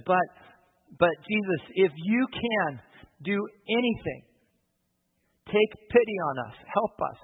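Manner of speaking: a father pleading for his son, voice lifting; pained plea. Retold or imitated. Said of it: "the pain in the dad's voice".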